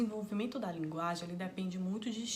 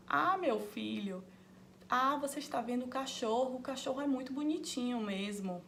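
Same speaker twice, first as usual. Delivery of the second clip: gentle, affectionate; 4 semitones higher than usual. Shown as a demonstration. Mother gently repeating the correct word back to her child, tender. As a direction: warmly praise the child while correcting the word. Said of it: "você pode falar".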